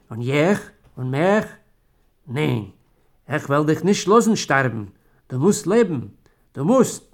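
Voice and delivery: loud, rising plea that he must live; desperate pleading. Acted. Wife begs her dying husband to live, loud and desperate. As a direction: beg him to stay alive.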